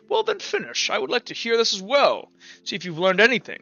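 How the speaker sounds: sharp high snap of a stiff priest; stern priest. Acted. Priest demands Sarah finish and prove she learned, high and sharp. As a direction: test her impatiently. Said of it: "He goes".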